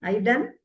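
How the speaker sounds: ARE YOU DONE rising sharply on DONE; questioning intonation. Shown as a demonstration. Teacher showing question intonation, ARE YOU DONE with rising DONE. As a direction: lift DONE as a simple question. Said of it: "That intonation".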